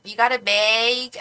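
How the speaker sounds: slow, drawn-out Chicago "You got a bag?"; mock Chicago accent. Vlogger teasing a viewer by mimicking Chicago grocery clerks, in a mild Chicago accent. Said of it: "I almost just made fun of it".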